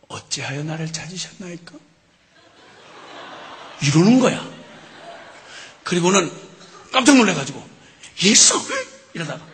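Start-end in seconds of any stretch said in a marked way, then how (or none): 0.1-1.7 quiet, measured reply; Jesus calmly answering his mother; calm young Jesus. Acted. 8.2-8.5 loud startled call; startled cry. Acted. Mary startled.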